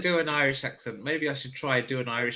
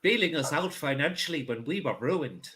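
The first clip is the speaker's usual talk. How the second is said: put-on accent slipping into Irish. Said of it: "That's Irish".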